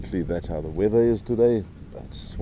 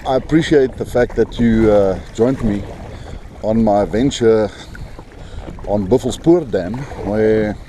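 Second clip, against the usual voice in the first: raised voice, higher and louder; shouting over wind; 4 semitones higher, 4 dB louder than usual. Real, not acted. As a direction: call out over the gusts. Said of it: "I hope you can hear me, over the wind".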